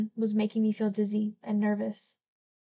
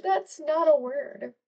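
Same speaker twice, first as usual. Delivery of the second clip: laughing; 5 semitones higher, slower than usual. Real, not acted. Reader laughing at flub.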